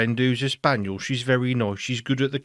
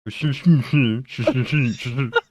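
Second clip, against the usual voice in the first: ventriloquist mumble. Pretend. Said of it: "I could talk without moving my mouth".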